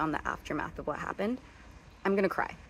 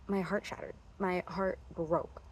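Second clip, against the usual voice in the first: heartbroken; 6 dB quieter than usual. Real, not acted. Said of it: "I'm too emotionally invested".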